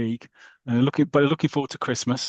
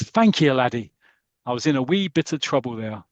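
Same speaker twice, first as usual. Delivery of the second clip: lilting put-on Welsh accent; lightly acted Welsh-accented thanks. Rescued Santa thanking his helper, in a Welsh accent. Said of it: "I'm still doing the Welsh accent".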